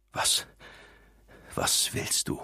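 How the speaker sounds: voiceless, croaking whisper; the words barely get out of a dry throat; croaked. Acted. Mogens croaks at his old enemy Graves. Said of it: "krächzte Mogens".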